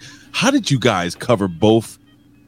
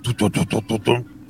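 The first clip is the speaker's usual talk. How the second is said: humming dramatic sting; 4 dB quieter than usual. Pretend. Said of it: "dramatic sting".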